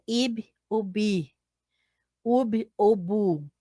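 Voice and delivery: Ib ou bi, Ub ou bu said slowly and softly; teacher modelling syllable pairs; syllables sounded out slowly. Shown as a demonstration. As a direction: sound out each pair one syllable at a time. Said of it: "Mesma coisa".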